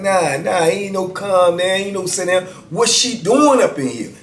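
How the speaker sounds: retold angry wife. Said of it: "And she started getting loud".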